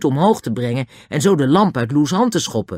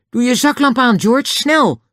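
high, loud urgent order; shouting; 13 semitones higher, 6 dB louder than usual. A narrator's reading. Julian tells George to light the torch, shouting. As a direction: yell it, pressing for speed. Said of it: "schreeuwde hij".

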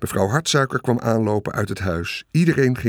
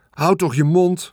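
put-on high, exasperated girl's cry; angry shriek; 7 semitones higher, 3 dB louder than usual. A narrator's reading. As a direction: cry out high to silence a brother. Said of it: "gilde Veerle". (boos, hoog gillend meisje)

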